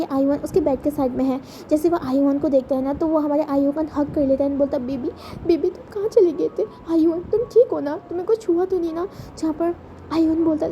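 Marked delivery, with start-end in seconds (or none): 4.9-9.1 anxious brother, pitched up on the questions; lightly voiced fretting brother; worried older brother. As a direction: fuss over the boy, afraid something happened. Wing wakes, frets over Ayuan.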